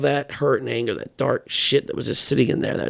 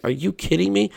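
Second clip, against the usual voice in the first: shocked disbelief; 7 semitones higher than usual. Retold or imitated. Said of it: "I'm like".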